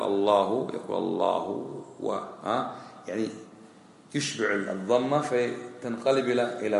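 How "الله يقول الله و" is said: الله stretched until it turns into a w, allahu-w; الله و, damma lengthened into waw. Shown as a demonstration. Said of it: "بدال يقول".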